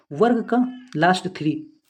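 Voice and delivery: वर्ग का last three said slowly, each word set apart; slow mnemonic. Shown as a demonstration. Teacher slowly dictating a memory trick to students. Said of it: "इसकी trick क्या है?".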